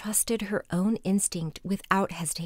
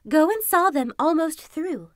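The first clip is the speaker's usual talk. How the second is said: fox voice; 6 semitones higher, 4 dB louder than usual. Acted. Fox orders Kuzma.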